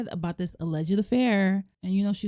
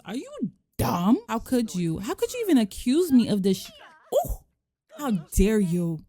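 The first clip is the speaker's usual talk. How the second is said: mock angry wife; 4 semitones higher than usual. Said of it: "So she is pissed".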